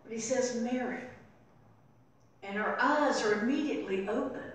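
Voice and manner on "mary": gently spoken name; a touch of loving tenderness; tender, loving. Acted. Jesus calls Mary by name, gently loving. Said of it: "most tender, loving voice".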